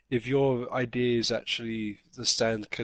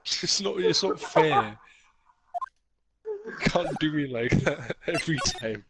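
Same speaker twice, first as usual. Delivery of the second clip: mock Jamaican accent; 4 semitones higher than usual. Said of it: "terrible Jamaican accent".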